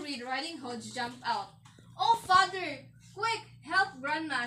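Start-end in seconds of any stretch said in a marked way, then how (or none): 2.0-4.4 raised storybook cry for help; urgent plea. A narrator's reading. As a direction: start high and loud, then ease off. Rescued girl urges father to help.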